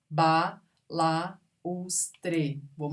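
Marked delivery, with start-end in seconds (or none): 0.1-1.3 "Balaustre" as ba-la-us-tre; syllable by syllable. Shown as a demonstration. Teacher showing vowels that separate, syllable by syllable. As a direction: pause between every syllable of "Balaustre", splitting a from u. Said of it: "Se separam".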